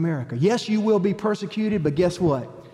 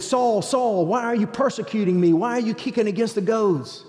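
higher, lightly raised voice calling from heaven; voice of the Lord; 5 semitones higher than usual. Retold or imitated. The Lord confronting Saul on the Damascus road: higher, calling reproach. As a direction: call out to him with solemn reproach. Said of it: "the Lord said".

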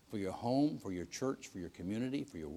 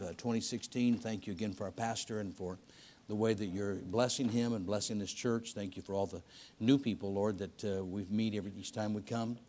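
closing prayer; 3 semitones lower than usual. Acted. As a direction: pray gently over the congregation. Closing prayer, heads bowed.

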